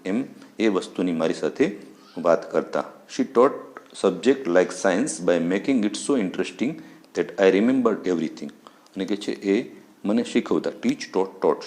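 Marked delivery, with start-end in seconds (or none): 3.2-8.5 each English word read out slowly and carefully; slow textbook reading. Shown as a demonstration. Teacher reading the English text slowly to students. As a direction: read the line slowly for the class.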